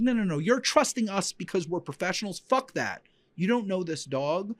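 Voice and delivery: insistent instructor's warning; emphatic scolding. Retold or imitated. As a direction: shut down the student's excuse.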